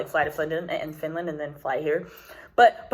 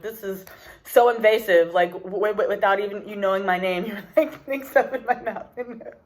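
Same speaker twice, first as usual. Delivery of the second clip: laughing disbelief. Retold or imitated. Retold protest at nasal swab.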